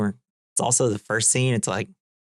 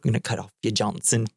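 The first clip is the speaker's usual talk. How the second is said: quick, badly faked German accent; a failed stab at a German accent; awful German accent; faster than usual. Nihilist threat retried for laughs, awful German accent. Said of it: "That's nothing like it. That's awful".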